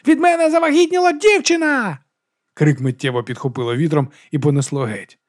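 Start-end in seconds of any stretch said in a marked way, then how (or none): 0.1-2.0 much higher, loud cry flung upward; shouting to the sky. Acted. Monk shouts his shame up to the sky, loud cry. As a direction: howl the confession at the heavens. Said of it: "закричав у небо".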